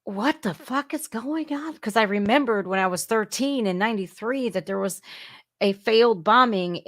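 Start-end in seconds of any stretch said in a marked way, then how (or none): 0.0-1.8 retold shock. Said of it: "I'm like".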